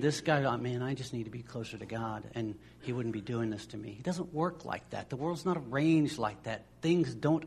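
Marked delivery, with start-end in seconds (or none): 0.4-4.0 mock lament. Voicing a worried believer.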